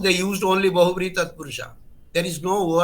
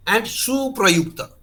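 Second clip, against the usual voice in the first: slow emphatic term; 5 semitones higher, 4 dB louder, slower than usual. Shown as a demonstration. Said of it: "stating the key term slowly".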